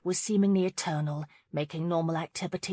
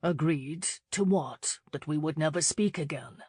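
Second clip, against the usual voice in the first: sharp; 2 semitones lower than usual. Acted. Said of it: "he asked sharply".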